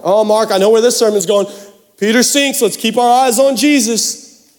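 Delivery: mock know-it-all listener. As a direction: imitate a listener who has heard it all. Mimics a know-it-all listener's objection.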